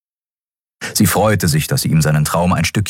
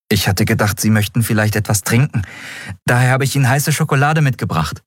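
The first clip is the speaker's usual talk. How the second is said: put-on higher, shy young boy's voice, quickening at the end; eager cabin boy; 5 semitones higher, faster than usual. Miko offers the captain hot chocolate, shy and eager. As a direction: offer the cocoa a little bashfully.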